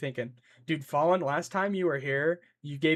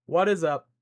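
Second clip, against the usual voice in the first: odd greeting; 6 dB louder than usual. Real, not acted. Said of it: "that did not sound nice".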